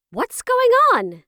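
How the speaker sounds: high, loud, drawn-out question; alarmed demand. A narrator's reading. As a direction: call out sharply, stretching the words. Mother confronts squealing children.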